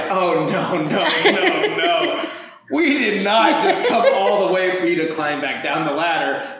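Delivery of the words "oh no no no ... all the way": rising higher and louder no's with laughter; emphatic refusal. Retold or imitated. Coach stopping Amber from taking the ladder, emphatic no's. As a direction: shut her down, laughing. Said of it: "I'm like".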